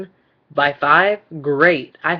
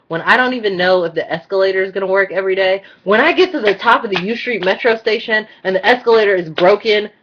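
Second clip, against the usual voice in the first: indignant, pushed and emphatic; angry rant; 3 semitones higher, 4 dB louder than usual. Real, not acted. Calling out the Metro over broken escalators, angry. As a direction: build the complaint, louder toward the broken escalator. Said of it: "I get angry".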